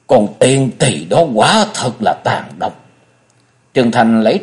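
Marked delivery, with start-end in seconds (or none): 0.1-2.9 slow, sombre condemnation; grave, lowered tone. A narrator's reading. The old mistress condemns the treacherous girl, gravely. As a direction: pronounce it slowly with grim weight. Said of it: "biến sắc, mở mắt ra trầm giọng".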